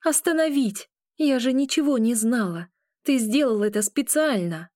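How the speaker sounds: shouting. A narrator's reading. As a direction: shout the blame at him. Continues angry accusation.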